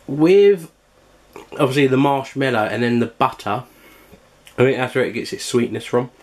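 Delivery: chewing while talking; mouth full. Real, not acted. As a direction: talk through a mouthful. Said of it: "speaking with my mouthful".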